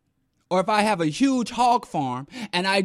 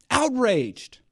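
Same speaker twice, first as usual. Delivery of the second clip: higher mock outraged echo; 6 semitones higher than usual.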